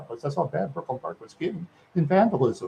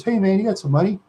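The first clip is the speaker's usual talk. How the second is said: imitated street woman; 6 semitones higher, 3 dB louder, faster than usual. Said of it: "lady says".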